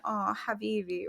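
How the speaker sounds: soft, consoling demonstration; sympathetic. Shown as a demonstration. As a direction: feel bad for them, softly. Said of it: "when we're feeling bad for someone".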